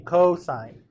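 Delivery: "Cosine" spoken clearly as a choral cue; "Cosine", both parts distinct; say-along demonstration. Shown as a demonstration. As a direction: lead a class in saying "Cosine". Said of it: "Say it with me".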